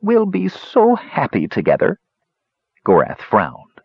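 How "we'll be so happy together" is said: high, delighted gush; sweetly overjoyed, pitched up high. A narrator's reading. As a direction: gush with loving happiness. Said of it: "Zorna gushed".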